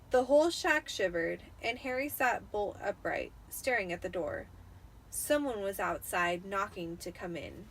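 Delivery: lightly dramatic read-aloud voice; story narration. A narrator's reading. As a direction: tell it like a spooky bedtime tale. Reads the Harry Potter chapter aloud.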